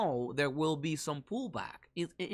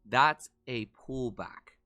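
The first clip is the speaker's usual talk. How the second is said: slow inner thought; 4 semitones lower, slower than usual. Retold or imitated. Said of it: "in my mind, I'm thinking".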